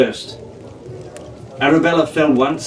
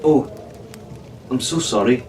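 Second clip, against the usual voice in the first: sincere; 5 dB quieter than usual. A narrator's reading. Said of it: "Arabella said sincerely".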